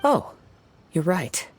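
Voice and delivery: a sharp, high "oh" as it dawns; startled realization; sudden realization. Acted. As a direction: catch the thought suddenly. Sudden realization mid-conversation.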